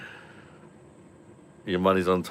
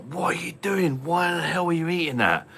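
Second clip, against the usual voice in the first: higher, incredulous telling-off; retold disbelief; 10 semitones higher than usual. Dad finding kids eating a toy, higher incredulous. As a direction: catch the kids at it, stunned. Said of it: "I was like".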